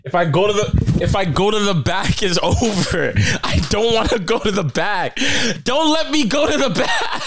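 rising, begging, breaking into laughter; mock pleading. Friend playing the traveler, begging the officer in mock panic. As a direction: plead not to be taken back, half laughing.

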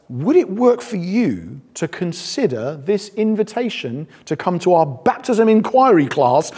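slow, mild mock-polite invitation; overly polite British hedging. Preacher mimicking how British people tiptoe around commands, mild mock politeness. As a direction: soften it into a timid British offer. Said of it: "we tend to say things like".

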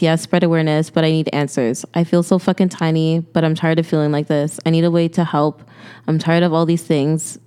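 earnest, even-pitched read of a personal note; reading aloud. Real, not acted. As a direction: read your own heartfelt note steadily. Reads own note aloud.

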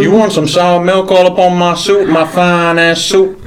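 lightly voiced old Southern gentleman, gruff; a hint of a cranky Southern colonel scolding; mild drawling Southern old-timer. Southern gentleman character continues.

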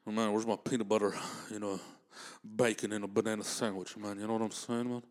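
lazy croon asking for his sandwich; a famous singer's voice. Acted. Comic as a famous singer asking for a sandwich. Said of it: "this is my Elvis voice".

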